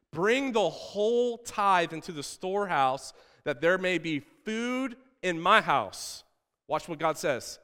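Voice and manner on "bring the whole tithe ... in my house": slow, measured preaching; scripture proclamation. Acted. Preacher proclaims the command about the storehouse, solemn proclamation. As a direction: draw out God's command to the people.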